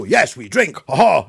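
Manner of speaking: a playful put-on Slovakian accent; joining in with a Slovakian friend's accent. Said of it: "and talk like that".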